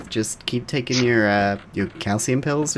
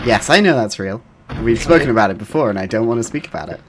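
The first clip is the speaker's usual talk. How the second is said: mock touchy; 6 dB louder, faster than usual. Mock-touchy reply to teasing.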